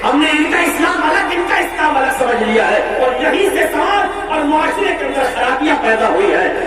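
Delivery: preacher urging his congregation; impassioned preaching. Acted. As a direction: drive the lesson home to the brothers.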